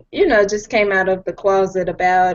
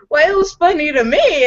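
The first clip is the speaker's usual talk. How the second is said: laughing retort; 8 semitones higher than usual. Retold or imitated. Retells friends scolding her joke.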